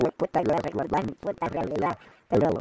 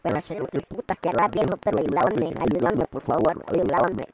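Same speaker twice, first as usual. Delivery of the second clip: robot voice; 2 semitones higher than usual. Acted. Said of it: "Voz de robot".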